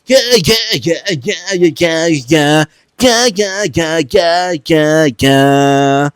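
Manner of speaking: very high, loud woo and yeahs; mosh pit cheering. Pretend. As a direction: scream along in the mosh pit. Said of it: "I will be in the mosh pit like".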